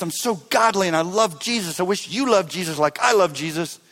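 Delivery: self-righteous. Retold or imitated. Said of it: "self-righteousness".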